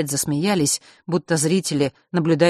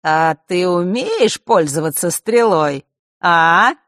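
slow, silky and sly; insinuating; 3 semitones higher, 6 dB louder, slower than usual. Acted. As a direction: coax her with menace. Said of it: "вкрадчиво спросил Марк".

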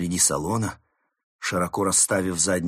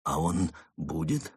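soft, hesitant rising question; pause, then ask hopefully; heart-stopping hope; 3 semitones lower, 4 dB quieter than usual. Acted. Mole hoping to see fox again, timid. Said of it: "с замиранием сердца спросил Крот".

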